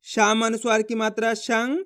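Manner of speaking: recited letter and sign, landing on held rising शंग; spelling out. Shown as a demonstration. Teacher reads out one letter, rising nasal शंग. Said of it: "एक ही अक्षर का उच्चारण करेंगे".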